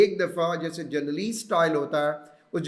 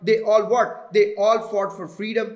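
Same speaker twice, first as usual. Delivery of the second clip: 'They all' slow, with a pause before 'fought'; deliberate slow read with a beat before 'fought'; slow dash pause; 2 semitones higher, 5 dB louder, much slower than usual. Shown as a demonstration. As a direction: spell it out slowly, as if marking a dash. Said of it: "तो मैंने ये previous सारे references को आगे relate किया".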